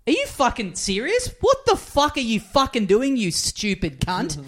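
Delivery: stuck behind a truck, he rages at the driver with a high yell; yelling in road rage. Retold or imitated. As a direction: rage at a truck driver through closed windows. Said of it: "I'm just yelling at the guy".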